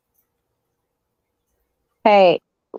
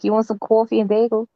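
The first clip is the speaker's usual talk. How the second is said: put-on New York accent; 3 semitones higher than usual. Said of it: "you usually say, like".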